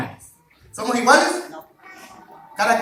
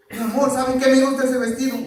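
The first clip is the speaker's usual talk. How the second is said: a hint of a coaxing wife, quick; wife asking sweetly; 4 semitones higher, 5 dB louder, faster than usual. Wife coaxes husband to buy dress, lightly voiced and quick.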